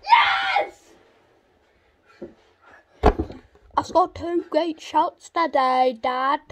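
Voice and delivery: loud victory yell; triumphant shout. Real, not acted. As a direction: celebrate the goal loudly. Celebrating a goal.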